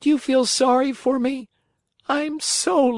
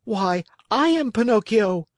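high-pitched, eager little voice; excited high storybook boy voice; startled puppet boy; 10 semitones higher than usual. A narrator's reading. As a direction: jump on the name, pitched way up. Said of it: "jumping to his feet".

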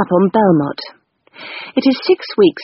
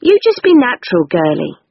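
Miss Blossom. Pretend. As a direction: play the cosy old confidante, pitched up. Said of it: "said Miss Blossom".

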